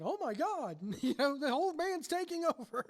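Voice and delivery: mock dismay. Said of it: "Stutz is like".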